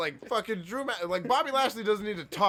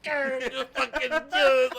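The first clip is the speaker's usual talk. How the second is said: higher, slow, drawn-out rant; crazed wrestler promo; 9 semitones higher, 6 dB louder, slower than usual. Retold or imitated. Wrestler yelling at his rival in a promo, slow and high. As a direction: stretch it out like an unhinged promo. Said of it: "He's like".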